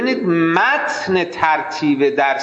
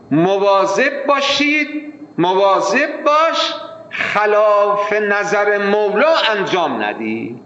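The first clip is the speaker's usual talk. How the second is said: cautioning warning; 3 semitones higher than usual. Acted. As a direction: draw out a careful admonition. Voices the warning one must give. (هشدار شمرده و کشیده)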